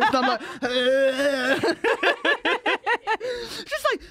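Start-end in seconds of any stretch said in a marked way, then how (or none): 0.6-1.8 drawn-out groan through laughter; mock groan. Telling how she reacted in the high street, mock groan. Acts out disgusted reaction to hecklers.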